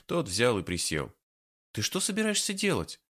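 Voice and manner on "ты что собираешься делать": high, outraged question; indignant. A narrator's reading. Woman outraged at what her partner is doing. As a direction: demand an answer, appalled. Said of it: "возмущённо спросила валерьянка".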